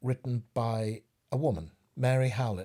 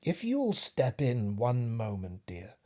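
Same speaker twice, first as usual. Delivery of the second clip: flattering spider; 2 semitones higher, slower than usual. Acted. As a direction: purr the compliments to lure her in. Cunning spider flatters the fly.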